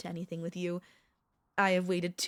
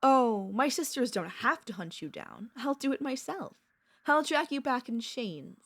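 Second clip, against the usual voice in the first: higher, louder possessive warning; playful threat; 4 semitones higher, 4 dB louder than usual. Acted. Vampire warning her pet she will hunt them herself, threatening. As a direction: threaten with lofty, raised voice.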